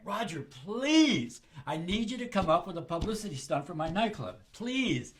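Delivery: lightly voiced pleading; pleading friend. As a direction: drag out the please like a desperate club owner. Friend begging on the phone.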